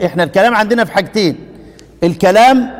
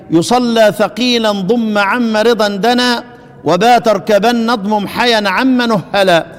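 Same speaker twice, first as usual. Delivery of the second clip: slow chanted recitation of the poem; reciting didactic verse; slower than usual. Acted. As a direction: intone the verse measuredly.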